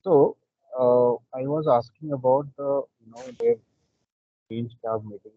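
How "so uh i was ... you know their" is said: louder. Real, not acted. Raises voice after being told low.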